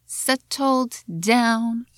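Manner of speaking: settled down with a British T and O, slow. Shown as a demonstration. A teacher showing the unsung British version. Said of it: "and not".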